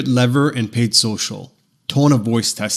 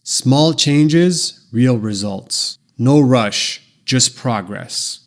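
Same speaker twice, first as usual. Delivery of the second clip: slow, unhurried and settled; calm; much slower than usual. Shown as a demonstration. Demo ad line for a weight loss app, calm. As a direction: ease the listener, no pressure. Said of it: "A calm tone sounds something like this".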